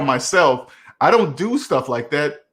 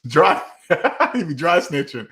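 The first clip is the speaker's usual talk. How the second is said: real laughter breaking up the words; laughing while reading. Real, not acted. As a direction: crack up mid-sentence. Cracks up reading viewer comment.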